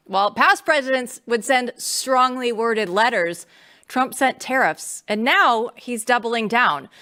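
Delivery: punchy segment intro, slow on the tough lines; promo announcer. Acted. Host tees up the China segment for viewers, promo announcer voice. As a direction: sell Trump's hardball like a promo voiceover.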